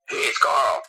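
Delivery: imitated caller's breezy hello; upbeat phone greeting. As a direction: announce yourself brightly on a surprise call. Acts out Carl's phone greeting.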